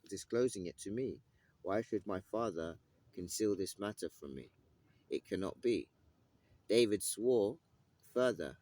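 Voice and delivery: lightly dramatised scripture reading. Acted. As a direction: read the passage out with weight. Reads the Samuel passage aloud.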